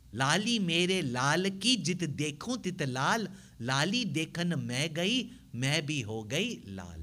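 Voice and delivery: slow, sing-song recitation of Kabir's verse; reciting a doha. Shown as a demonstration. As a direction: savor each word of the couplet slowly. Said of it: "Kabir Das ji's doha".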